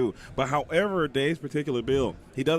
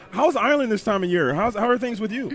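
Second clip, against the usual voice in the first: mock Irish; 4 semitones higher, 3 dB louder than usual. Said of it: "You need an accent".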